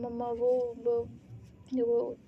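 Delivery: stammering. Acted. Daughter stammers before telling mom about the phone. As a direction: stammer वो वो वो, afraid to say it. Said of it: "क्या हकला क्यों रही हो".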